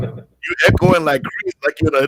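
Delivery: host hearing his guest echo on the call; echoey line. Real, not acted. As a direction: voice echoing as if in a tunnel. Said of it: "you got some echo on".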